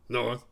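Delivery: "North" as a short quoted imitation; imitating Mick's pronunciation. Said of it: "This is exactly how he says it too".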